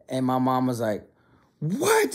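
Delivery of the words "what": high-pitched mock disbelief; hammed-up incredulous cry; shocked outrage. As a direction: imitate a mom's stunned "what?", pitch leaping up. Mom's outraged reaction, retold.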